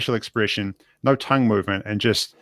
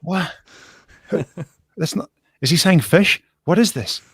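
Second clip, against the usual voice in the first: 1 baffled viewer; 8 semitones higher than usual. Retold or imitated. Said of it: "You know, like".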